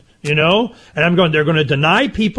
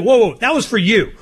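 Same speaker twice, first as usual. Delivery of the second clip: laughing shout, a bit higher; laughing protest; 6 semitones higher than usual. Real, not acted. Laughing at Donna's mix-up, laughing shout. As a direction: call it out while cracking up.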